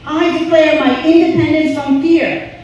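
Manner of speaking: loud, high declaration for the crowd to echo; call for response. Shown as a demonstration. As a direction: proclaim it loud so everyone repeats. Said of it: "Repeat after me".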